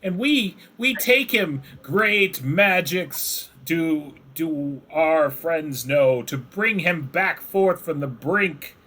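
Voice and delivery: piping up, a little pompous; squeaky kobold. Acted. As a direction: kobolds telling the player their friends will bring the master back. Kobolds explain plan.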